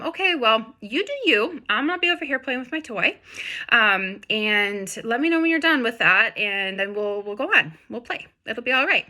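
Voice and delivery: lightly voiced easygoing puppy; voicing a carefree dog. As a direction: play the dog who shrugs you off. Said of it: "the dog looks at you and is like".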